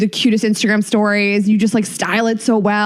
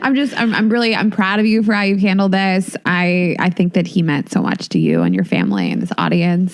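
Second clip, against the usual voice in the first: tearful; 5 semitones lower than usual. Real, not acted. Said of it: "Now I'm crying".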